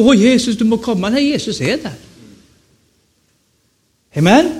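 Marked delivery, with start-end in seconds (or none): 0.0-1.1 mock pleading call. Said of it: "du behöver inte ropa".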